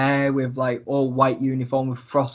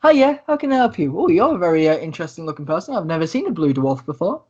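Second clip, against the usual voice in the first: witch shopkeeper; 3 semitones higher than usual. Acted. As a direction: play the friendly shop witch, pitched up. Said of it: "And she goes".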